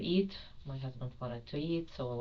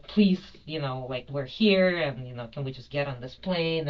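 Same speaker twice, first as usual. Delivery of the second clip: retold pleading; 7 dB louder than usual. Passenger begs airline staff to let them board, retold pleading. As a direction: plead urgently as in a retelling. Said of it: "So I start begging them".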